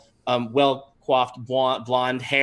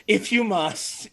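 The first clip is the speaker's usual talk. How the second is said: put-on old lady; 7 semitones higher, slower than usual. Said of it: "pretends like she's just".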